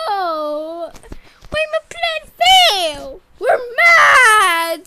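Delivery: frustrated shout. Acted. Villain plan fails.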